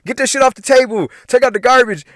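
high, imitated mom giving orders; nagging mom. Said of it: "my mom's being like".

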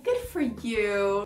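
slow, unimpressed congratulation; distant mother. Acted. Mother answering her child's news, insincere. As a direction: draw it out with no shared joy. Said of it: "E aí a mãe chega tipo".

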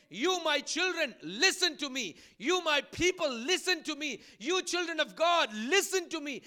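insistent "listen", punched each time; a prophet's repeated call, stressing "listen"; emphatic appeal. Acted. Prophet reminding his people again and again, emphatic appeal. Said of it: "he is emphasizing on the word listen".

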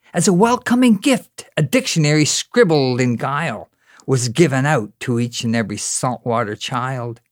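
measured spoken-word delivery with strong opening stresses; poem recitation. Acted. Poet telling bar crowd's Newfoundland tale, spoken-word recitation. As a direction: recite it in rhythm, each phrase tailing off.

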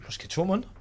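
whispered, sheepish reply. Retold or imitated. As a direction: whisper it to dad, half proud. Whispered answer to his father.

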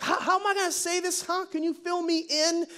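high, lightly Italian-American questioning; Mary, Italian-style. Acted. Mary asks the angel to fill her in, Italian attitude. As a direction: fret aloud with Italian attitude. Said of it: "have a little Italian attitude".

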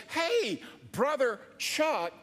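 high, drawn-out hail; mock-hearty call, pitched well up; calling out a greeting. Someone on an airplane hailing the pastor, calling out. Imagined passenger greets him on plane.

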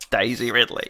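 lightly put-on Australian accent; attempted Aussie accent. Host performing the name for Toby, mock Aussie accent. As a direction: have a modest go at Aussie. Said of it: "wants me to do an Aussie accent".

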